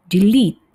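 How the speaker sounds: delete said as "dilit", clear and falling; correct pronunciation. Shown as a demonstration. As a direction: show the right way: delete as "dilit". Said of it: "Jadi bukan delete, tapi".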